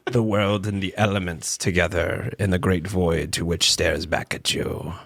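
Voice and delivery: low, slow ominous announcer; dark villain intro. Acted. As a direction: introduce yourself like a dark lord. Dramatic podcast intro persona.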